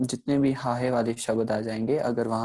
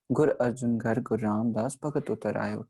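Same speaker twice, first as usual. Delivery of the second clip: गुर अर्जुन घर read in one rush; teacher demonstrates a hurried Gurbani reading; rushed recitation. Shown as a demonstration. Scripture line read too fast. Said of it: "बहुत तेज़ी से उच्चारण किया हमने".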